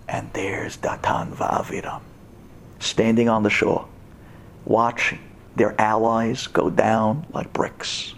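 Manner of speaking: low hushed storyteller whisper; dramatic whisper. A narrator's reading. Preacher describing the traitors on the shore, hushed whisper. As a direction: drop to a whisper for suspense.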